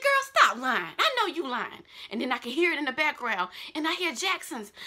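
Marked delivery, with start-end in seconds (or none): 0.0-1.8 disbelieving shout. Retold or imitated. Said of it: "I said".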